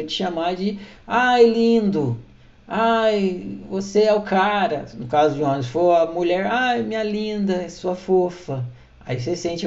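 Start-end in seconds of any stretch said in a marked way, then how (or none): 1.1-4.9 slow, cooing mock praise; hammed-up sweet flattery; mock sweet compliment. 6.5-8.6 slow, softer, doting tone; mock tender flattery; cooing mock praise.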